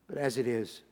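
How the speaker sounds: low, soft reply; calm authority. Acted. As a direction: say it quietly to the governor. Jesus calmly answers Pilate.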